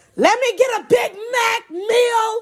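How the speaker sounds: mock, very high screech, stretched out and drawn out. Retelling a passenger ordering at the drive-through: imitating someone screaming. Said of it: "she starts screaming".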